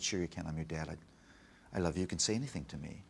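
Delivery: soft, low fatherly reassurance; tender and hushed; reassuring dad. Retold or imitated. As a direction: gently coax her to open up, keeping it low. Dad reassuring his crying daughter.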